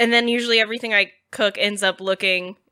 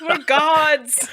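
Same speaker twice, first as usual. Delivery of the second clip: mock triumphant shout; 5 semitones higher than usual. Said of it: "we're gonna be like".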